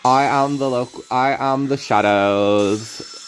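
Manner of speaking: slow, halting put-on voice; lightly voiced muscle fighter; a slow deliberate hammy intro; Alex voice. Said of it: "He talks like this".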